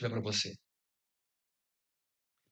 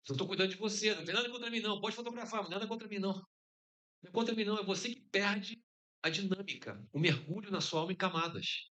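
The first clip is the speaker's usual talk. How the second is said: mild scolding; 6 semitones higher than usual. Real, not acted. Preacher scolding photographer in audience.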